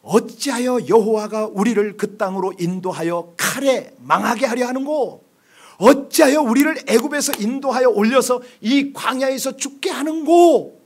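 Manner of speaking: slow grievance rising to a loud, high cry; Israelites' bitter complaint. Retold or imitated. Preacher voicing the Israelites' complaint against God, slow and swelling to a loud cry. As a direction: read the people's complaint, building to an outraged cry. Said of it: "그들의 말을 보면 그렇게 말합니다".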